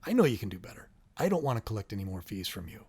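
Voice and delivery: quiet, gentle encouragement; soft and caring, believing in them; genuine concern. Shown as a demonstration. Parent to child after collecting the fee, quietly caring. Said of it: "you can express genuine concern".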